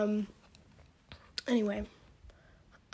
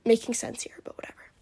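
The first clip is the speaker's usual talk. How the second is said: whisper. Real, not acted. Trailing self doubt.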